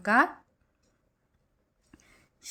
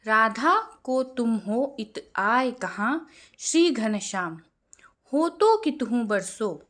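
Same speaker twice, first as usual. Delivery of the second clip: slow recitation; slower than usual. Shown as a demonstration. Reads the example verse aloud.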